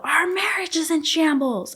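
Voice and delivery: high, loud mock scream; retold scream. Husband screaming back at wife, high mock yell. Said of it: "he just screamed out".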